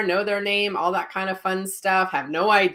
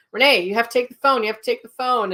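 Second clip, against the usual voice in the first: higher, hurried mock urgency; urgent retold plea; 4 semitones higher, 4 dB louder, faster than usual. Telling coworker Renee to take the phone, urgent retelling. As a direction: press your coworker to take the call.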